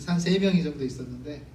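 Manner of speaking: ordinary talk, nothing marked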